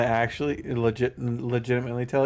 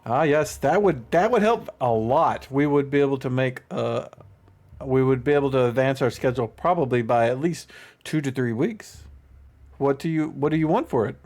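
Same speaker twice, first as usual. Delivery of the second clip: eager gnome. Acted. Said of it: "He's like".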